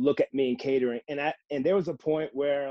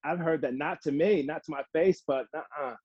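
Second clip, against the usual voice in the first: dismissive scoff; 3 semitones higher, 4 dB louder than usual. Real, not acted. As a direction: brush off an excuse you have heard about. Scoffing at a retold excuse.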